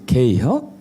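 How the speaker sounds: two-syllable Chungcheong question, rising; Chungcheong dialect. Retold or imitated. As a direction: imitate a terse Chungcheong father-in-law. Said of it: "딱 두 마디에".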